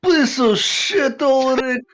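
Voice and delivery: in-character angry yelling at a friend; a touch of a rough scolding shout. Acted. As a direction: yell at him as he's led away, outraged.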